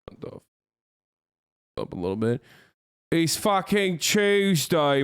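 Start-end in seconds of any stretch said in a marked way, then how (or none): 3.1-5.0 slow, high drawn-out hype call; hyped announcement. Pretend. Streamer hyping chat that it's Tuesday, slow drawn-out high call. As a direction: stretch it out to hype the day. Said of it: "hyping the day".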